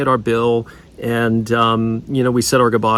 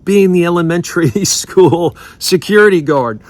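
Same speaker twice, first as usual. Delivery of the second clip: retold waitress answer, higher, with a laugh in it; 5 semitones higher, 4 dB louder than usual. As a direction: let a laugh break into the middle.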